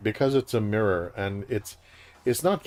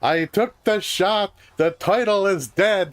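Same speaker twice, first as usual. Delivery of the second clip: exasperated Jewish father voice; 10 semitones higher, 6 dB louder than usual. Pretend. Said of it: "love when you do your exasperated, uh, Jewish father voice".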